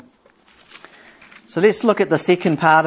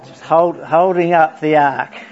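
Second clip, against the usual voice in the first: laughing; 4 dB louder than usual. Real, not acted. Laughing at photo.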